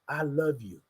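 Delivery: hushed, inward affirmation; said to yourself. Shown as a demonstration. Host asks listeners to tell themselves, softly. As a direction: say it quietly, just for you. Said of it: "But say to yourself".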